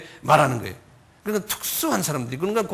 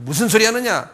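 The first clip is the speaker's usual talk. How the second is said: louder, higher mock yell of rebuke; raised-voice retelling of an angry crowd; retold crowd shout; 5 semitones higher, 6 dB louder than usual. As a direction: imitate a crowd shouting someone down. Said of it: "막 소리 지르는 거예요".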